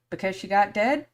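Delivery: put-on child's innocent question. Son asking why about his dead aunt, high child voice. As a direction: ask it like a puzzled toddler. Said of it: "And he goes".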